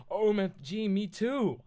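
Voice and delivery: high, loud gushing delight; happy reply. Acted. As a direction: squeal it happily, like a thrilled fan. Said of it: "I replied happily".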